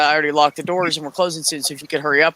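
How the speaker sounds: courteous customer-service voice; polite request. Retold or imitated. Clerk asking shoppers to hurry, politely. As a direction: ask nicely, keep it friendly. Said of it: "I asked you to, to hurry up nicely".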